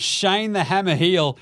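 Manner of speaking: slow, drawn-out ring announcer build-up; booming boxing-style intro; hype intro. Acted. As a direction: announce him like a prize fighter. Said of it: "Oh, that was an intro".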